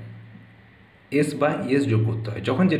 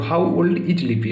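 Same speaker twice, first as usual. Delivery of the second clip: slow model reading; 3 semitones higher, much slower than usual. Shown as a demonstration. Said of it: "এখানে is হচ্ছে verb".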